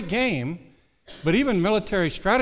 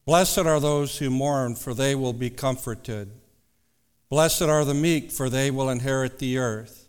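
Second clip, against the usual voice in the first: scripture reading; 2 semitones lower than usual. Acted. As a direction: read the verses with reverence. Reads scripture aloud.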